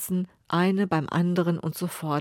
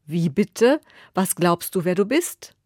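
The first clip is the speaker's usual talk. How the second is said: indignant king; 5 dB louder than usual. Acted.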